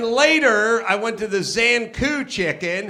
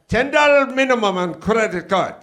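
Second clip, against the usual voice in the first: counter clerk. Retold or imitated. Counter guy voiced in falafel story.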